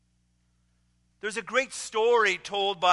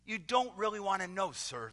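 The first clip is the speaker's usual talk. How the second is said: hushed student; 6 dB quieter than usual. Retold or imitated. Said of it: "the student says".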